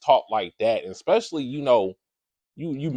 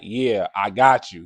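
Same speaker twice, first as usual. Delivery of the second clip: dismissive yeah; 3 semitones lower, slower than usual. Retold or imitated. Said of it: "He didn't say it like".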